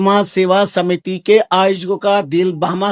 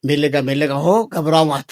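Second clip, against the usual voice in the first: reassuring; 6 semitones lower than usual. Real, not acted. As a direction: soothe gently, pitched well down. Soothes listeners worried about prasad.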